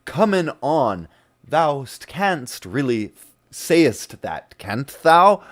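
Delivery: lightly put-on olde worlde voice; mock Old English. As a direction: parody her stilted old-timey talk. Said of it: "it's literally her talking".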